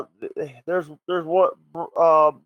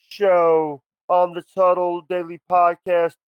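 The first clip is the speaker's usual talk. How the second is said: wrestling promo; 2 semitones higher than usual. Pretend. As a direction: hype it up like a wrestler cutting a promo. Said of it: "I want you to cut the greatest promo".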